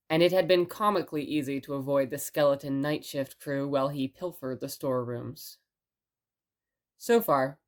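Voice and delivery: steady, even storytelling read; story narration. Acted. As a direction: draw listeners into the tale calmly. Reads the story after the intro.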